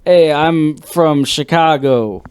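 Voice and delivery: slow, mock Chicago accent; put-on regional accent. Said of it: "I haven't practiced my accents".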